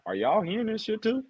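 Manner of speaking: high, hushed disbelief; mock stunned aside; incredulous whisper. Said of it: "looked at each other like".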